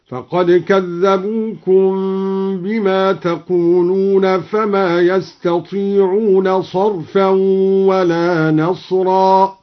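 slow chant, يستطيعون sung with ya; recited with ya. Shown as a demonstration. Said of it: "قرأ الدوري بياء الغيبة هكذا". (تلاوة بياء الغيبة في يستطيعون)

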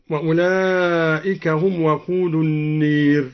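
النير recited slowly with the long a leaned toward e; imala on النار. Shown as a demonstration. Reciter demonstrates Duri's imala, slow tilted vowel. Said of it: "وكذا أمال".

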